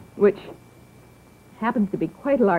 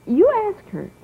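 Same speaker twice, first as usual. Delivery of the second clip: eager urging; 11 semitones higher than usual. Acted. Urging child to ask mother.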